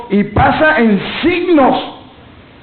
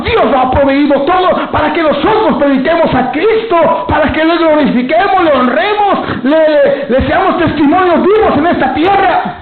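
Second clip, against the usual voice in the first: fervent preaching; 3 semitones higher than usual. Acted. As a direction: exhort the church to honour God. Preacher at full force. (exhortación ferviente)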